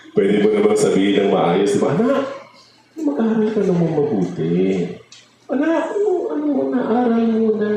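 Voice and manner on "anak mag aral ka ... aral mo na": gentle parent. Retold or imitated. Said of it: "Pwede namang sabihin ng gano'n".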